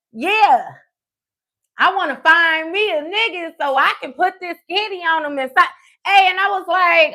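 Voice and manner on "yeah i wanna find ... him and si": higher-pitched mock of an unashamed friend; brazen retold repeat. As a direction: repeat it boldly, voice lifted.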